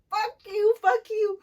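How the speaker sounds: high, loud furious yell; outward yell. Retold or imitated. Stripper outwardly cursing the crowd, loud yell. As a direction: shout it like you mean it. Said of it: "my outside me is like".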